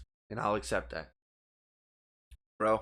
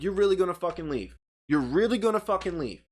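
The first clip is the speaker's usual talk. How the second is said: raised, higher-pitched disbelief; retold hollering; 5 semitones higher, 3 dB louder than usual. Calling after his friend heading to the truck, retold hollering. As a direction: re-enact a moderate, incredulous holler. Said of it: "I'm hollering into the wind".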